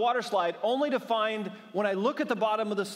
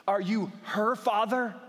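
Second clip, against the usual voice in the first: slow, put-on judging voice; condescending mom; 3 semitones higher than usual. The rescuing mom questions the dad, slow mock condescension. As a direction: stretch it out as the disapproving mom. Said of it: "appropriate condescension, like, and judgment".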